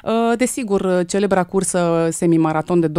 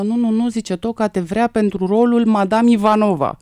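retold insistence, louder and higher; emphatic insistence; 5 semitones higher, 5 dB louder than usual. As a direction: insist over their doubts, voice raised. Retold insistence on casting her. (insistență apăsată, redată)

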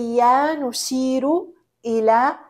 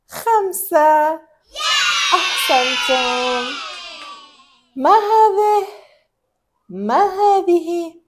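put-on reading to a toddler. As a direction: talk gently to a toddler. Talking to a toddler.

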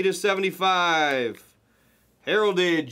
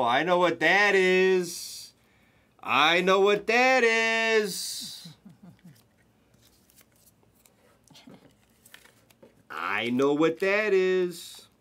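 awed realisation; 2 semitones higher, much slower than usual. Real, not acted. Slow realisation at the hit.

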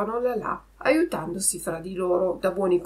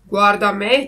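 loud, firm fox voice at usual pitch; 10 dB louder than usual. A narrator's reading. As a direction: hold yourself up loudly as the example. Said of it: "disse la volpe". (volpe che parla forte)

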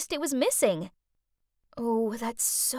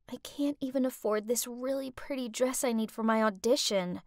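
mock sniffly; 5 dB quieter than usual. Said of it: "I sniffed".

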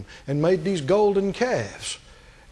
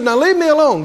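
louder and higher, pushing each word; forceful God; 7 semitones higher, 6 dB louder than usual. Retold or imitated. Preacher voicing God ordering Moses away, loud and forceful. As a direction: command it like an offended God. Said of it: "God's talking to Moses".

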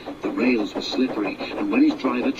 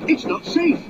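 shouting foreman. Acted. Foreman running up to the driver, high shout. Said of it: "he shouted".

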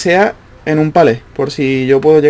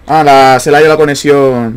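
loud frustrated outburst; raging gamer; 5 dB louder than usual. Real, not acted. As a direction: snap at the lagging game. Jugador se queja del lag. (gamer furioso gritando)

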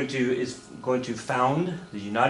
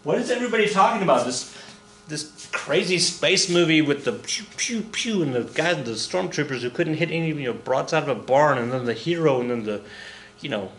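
mock confused student.

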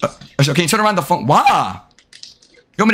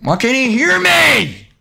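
high, slow, stretched-out complaint; exasperated cry; 6 semitones higher, slower than usual. Real, not acted. Streamer nobody can hear, exasperated cry. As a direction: wail it in exasperation.

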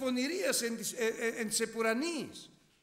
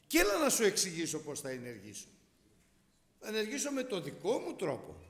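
voicing God. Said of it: "του λέει πράγματα".

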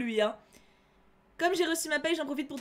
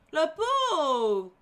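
a loud, hammed-up "poor thing"; theatrical fake pity; mock pity; 4 semitones higher, 6 dB louder than usual. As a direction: overplay the sympathy, half teasing. Mock pity for a game character.

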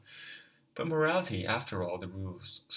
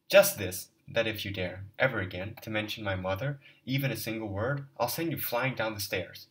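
menacing threat; 5 dB louder than usual. Acted. Threat to Luzin.

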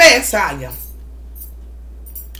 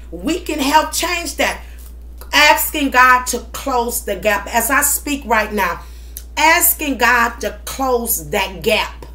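prayer. Acted. Prays over son.

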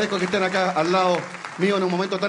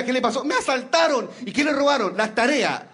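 put-on raised childish voice, pitched high; 6 semitones higher than usual. Schoolboy telling mother he was robbed, higher childish voice. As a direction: play the little kid telling his mom.

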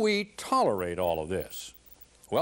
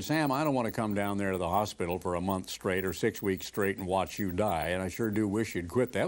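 gentle plea; 5 semitones lower than usual. Retold or imitated. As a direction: ease it out gently to a dying friend. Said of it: "But I said it gently".

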